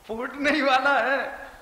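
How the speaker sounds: laughing through the punchline, slowed; preacher laughing as he warns the congregation. Real, not acted. Preacher to the congregation, laughing as he says it.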